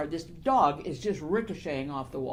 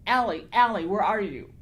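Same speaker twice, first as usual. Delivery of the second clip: raised-voice mock calling out; retold scream; 2 semitones higher, 6 dB louder than usual. Author imitating Ben screaming for Allie, a mild mock yell. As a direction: mildly imitate a man yelling for someone. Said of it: "And him screaming".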